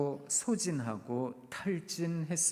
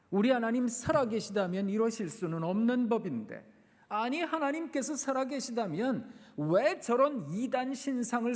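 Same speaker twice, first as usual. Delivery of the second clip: impassioned questioning; 4 semitones higher than usual. Acted. Preacher voices doubting lament.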